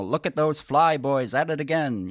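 forties propaganda narrator. Acted. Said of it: "an old propaganda film from the forties".

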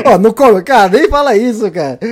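cara, nem fala isso, loudly; excited. Real, not acted. Reacts to joke, exasperated.

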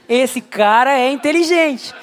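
mock-admiring listener, said slowly; slow impressed repeat. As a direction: drag out inteligente as if in awe. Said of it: "Ele parece inteligente só pelo tom".

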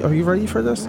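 high, pumped-up hype call; excited hype. Real, not acted. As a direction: shout it to rev the crowd. Hyping up podcast return.

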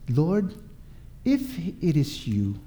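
soft, hesitant touch of doubt; halting and quiet, testing who is there; doubtful. Acted. Peter calling to Jesus on the water, mildly doubtful. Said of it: "can you sense the doubt?".

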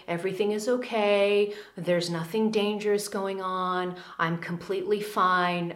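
calm yourself down softly; soothing mantra. Shown as a demonstration. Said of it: "speaking in a very soothing way to your ego".

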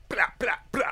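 high unvoiced blah blah; whisper. Real, not acted. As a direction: toss it off in a whisper. Whispered dismissal.

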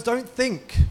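mock Bruce Lee. Bruce Lee scolding his student, mock command. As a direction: snap it like a kung fu master. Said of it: "He goes".

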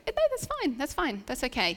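high, quick no, then settling; reassuring. Retold or imitated. Telling the boy's mum not to worry, reassuring high. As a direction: soothe the worried mum fast. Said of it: "I was like".

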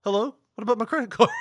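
high, loud hammed-up hello into dead line; mock calling out. Prank caller yells hello after telemarketer hangs up. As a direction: yell after the hung-up caller, pitched high.

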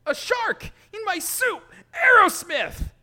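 high, loud alarm; panicked shout. Acted. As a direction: yell out the attack. Character yelling in panic.

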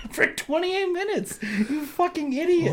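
high, slow, laughing half-shout; laughing mock insult. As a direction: yell it out while cracking up. Insulting the caller through laughter.

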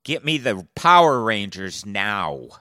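loud, drawn-out hammed-up command; mock yell. Co-host playing the buddy calling for help, mock yelled command. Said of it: "Dennis yelled to someone".

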